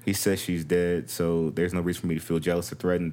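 low, even letter-reading voice; reading aloud. Acted. Co-host reading a troubled wife's letter, read aloud.

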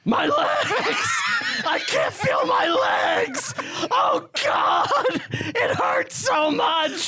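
screaming about his legs, hammed-up; FDR impression. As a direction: wail it like FDR in pain. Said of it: "my F D R impersonation".

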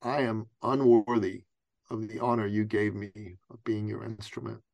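subdued, earnest retold prayer; humble prayer. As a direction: plead humbly with God, pausing between phrases. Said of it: "I asked God".

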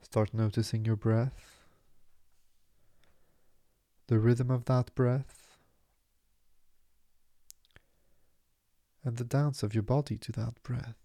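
measured meditation voice, long pauses between phrases; guided meditation. Acted. Meditation teacher easing listeners into stillness, calm guiding delivery. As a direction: guide them into calm, unhurried and spacious.

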